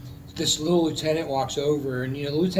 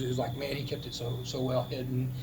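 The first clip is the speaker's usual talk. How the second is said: teary; 3 semitones lower, 9 dB quieter than usual. Real, not acted. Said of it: "I'm getting teary-eyed thinking about it".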